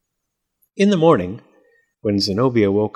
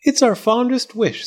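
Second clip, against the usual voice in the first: joyful; 11 semitones higher than usual. A narrator's reading. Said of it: "said Fletcher and Zenobia joyfully".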